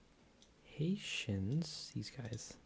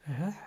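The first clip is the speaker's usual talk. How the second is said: mock coughing; 7 semitones higher, 7 dB louder than usual. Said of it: "He's like".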